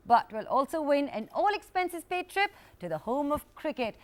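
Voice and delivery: upbeat quiz host reading the opening; bright show-opener delivery; TV host intro. Acted.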